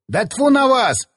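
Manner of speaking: high, drawn-out disgusted exclamation; exasperated. A narrator's reading. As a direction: throw it out in fed-up protest. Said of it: "всплеснул руками Мустафа".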